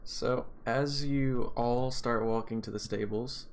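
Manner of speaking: steady scene-setting storyteller voice; game master narration. Acted. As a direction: paint the scene for the players. DM sets the scene.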